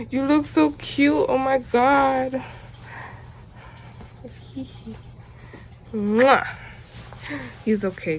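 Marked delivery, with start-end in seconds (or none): none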